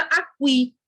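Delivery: "aqui" mispronounced as "a-kwí"; "aqui" with the mute u voiced; wrong, u sounded. Shown as a demonstration. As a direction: add a w glide in "aqui". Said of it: "ninguém fala nem escuta".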